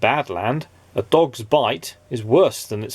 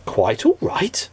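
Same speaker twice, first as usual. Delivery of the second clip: slow, puzzled whisper; whispered to himself; slower than usual. A narrator's reading. Mister Good repeating the stranger's words, whispered. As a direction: breathe it to yourself in disbelief. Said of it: "repeated Mister Good to himself".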